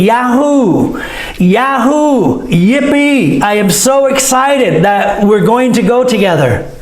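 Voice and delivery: high cheerful yippee; excited yippee. Shown as a demonstration. Teacher showing excitement, a bright yippee. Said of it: "Or we can also say".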